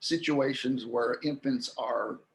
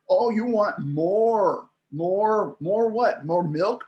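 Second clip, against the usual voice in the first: higher, louder, slow delighted parent voice; 4 semitones higher, 4 dB louder, slower than usual. Retold or imitated. Parent thrilled the toddler says more, higher and slow. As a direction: gush over the child's first word. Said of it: "they'll say things like".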